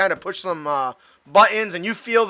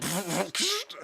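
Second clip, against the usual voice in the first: mouth-made mechanical whoosh and click; puffed sound effect of a gadget deploying; imitated pop-out noise; 11 dB quieter than usual. Shown as a demonstration. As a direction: mimic guns popping out with the mouth. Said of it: "they popped out kinda like".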